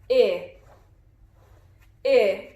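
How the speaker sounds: a crisp short "I" as in "itch", not "eye"; short i sound. Shown as a demonstration. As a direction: model the short vowel "I" clearly. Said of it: "The short sound for the letter I is I".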